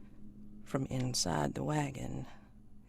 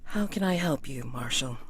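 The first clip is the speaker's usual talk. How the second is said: genteel lady greeting; 5 dB louder than usual. Acted.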